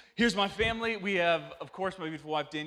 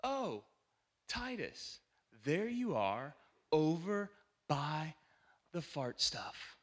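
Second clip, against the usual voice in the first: put-on kid's answer; 3 dB quieter, much slower than usual. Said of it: "And he would have said".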